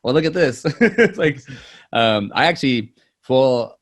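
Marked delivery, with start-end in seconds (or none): 0.0-0.6 loud, higher, rushed re-enacted sales pitch; playful showman talking over laughter; hammed-up pitch. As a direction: pitch it big and fast.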